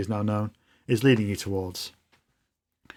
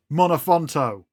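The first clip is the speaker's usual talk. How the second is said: higher-pitched rallying cry, little added volume; mock scream; 4 semitones higher than usual. Leader rallying the street, a mild mock scream. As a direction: call it out like a restrained battle cry. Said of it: "and screams".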